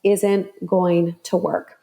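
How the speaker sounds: slow, deliberate inner-voice warning; measured pronouncement from within, drawn out. Retold or imitated. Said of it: "that's when the same voice says".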